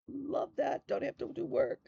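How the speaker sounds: high, sing-song love that; giddy high voice over the gift; delighted gush. Real, not acted. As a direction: trill it out with glee. Gushing over pre-carded floss.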